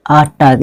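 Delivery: "अटैक" ending in -tak, not -taik; taught pronunciation "अटाक". Shown as a demonstration. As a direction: say "अटैक" as at-TAAK, with an "a" vowel. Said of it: "क्या बोलना है".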